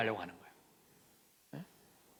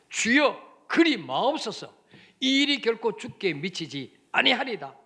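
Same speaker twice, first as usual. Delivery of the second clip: scolding protest; 2 semitones higher than usual. Acted. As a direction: protest hard, as if scolding your master. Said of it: "막 꾸짖듯이".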